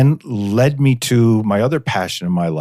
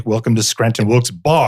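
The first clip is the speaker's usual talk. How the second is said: mock stewardess. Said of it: "the stewardess comes on and say".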